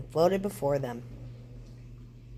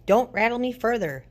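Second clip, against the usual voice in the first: higher, louder rattly warning; loud bony skeleton voice; clattering skeleton; 6 semitones higher, 5 dB louder than usual. A narrator's reading. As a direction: snap it like dry bones. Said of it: "clattered the skeleton".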